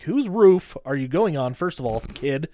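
mock scolding, half laughing. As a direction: scold him like a fed-up older brother. Scolding the kid in the film.

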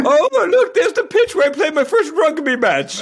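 high, loud, gushing mock British accent; Piers in British accent. Imitating crewmate spotting his rugby pitch from orbit, mock British accent. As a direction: play a bad British accent, thrilled and pointing down. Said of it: "he'd be like".

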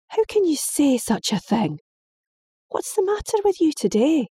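rising, appalled father; father shocked at his daughter's words. Acted.

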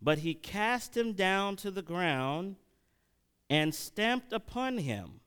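measured Bible reading aloud; scripture reading. Acted. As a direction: read the passage out verse by verse. Reads Daniel aloud.

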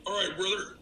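lightly voiced wrestler catchphrase; Hulk Hogan. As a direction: friend jokes about a union greeting, light wrestler impression. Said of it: "That's like Hulk Hogan".

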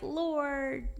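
high, drawn-out mock whine; whiny. We sit there whining to the Lord, whiny. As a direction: wail it pleadingly as a put-on whine. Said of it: "we get all whiny".

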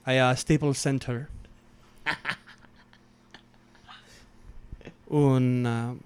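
lightly voiced Spanish rant with long pauses; Pau Gasol rant. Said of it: "do a Pau Gasol rant right now".

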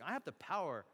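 acted-out bragging with menace; forceful, punched-out retold threats; boastful. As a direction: imitate a governor throwing his weight around.

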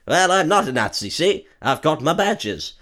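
lightly voiced indignant gent; a touch of a prim protest; posh toff reply. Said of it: "the guy's just like".

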